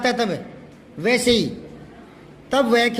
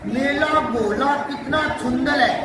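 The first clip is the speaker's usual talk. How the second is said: put-on the toddler lisp again with a laugh in it; teacher repeats the child's lisp, laughing. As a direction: mimic a lisping child while chuckling. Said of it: "बच्चे ऐसे ही बोलते हैं, तुतला कर".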